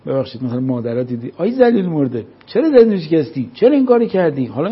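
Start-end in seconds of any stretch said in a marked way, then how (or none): 1.4-4.5 mock angry mother, voice raised and higher; scolding mother. Mother scolding her child over a broken glass, mock angry. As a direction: snap at the child like an upset mom.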